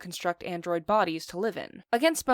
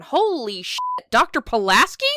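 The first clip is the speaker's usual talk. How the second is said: louder, higher surprised outburst; shocked; 4 semitones higher, 8 dB louder than usual. Real, not acted. Reviewer spotting Doctor Pulaski, louder and higher in shock. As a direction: blurt it out in disbelief.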